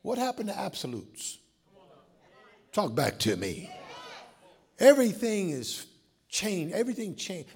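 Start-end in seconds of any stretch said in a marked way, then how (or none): 2.7-3.7 calling out. Real, not acted. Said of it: "calls congregation to respond".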